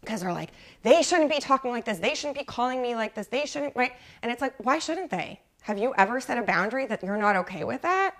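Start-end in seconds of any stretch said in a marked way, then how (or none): 0.8-3.7 higher-pitched imitation of angry complaining; mock indignation. People angry at what others are doing, mock indignant. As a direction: complain in mild mock outrage. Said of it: "all angry at what other people are doing".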